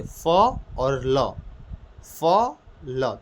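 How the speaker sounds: "फ" and "ल" held long, each on its own; letters sounded separately. Shown as a demonstration. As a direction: sound out "फ", pause, then "ल". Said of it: "शब्द को ध्यान से पकड़िए". ("फ" और "ल" को अलग-अलग, खींचकर बोलना)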